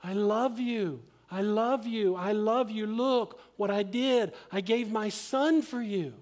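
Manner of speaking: slow, emphatic declaration of love; insistent, heartfelt reassurance, lightly acted; God's pleading voice. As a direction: plead it earnestly, drawing out the key words. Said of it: "But God is saying to us".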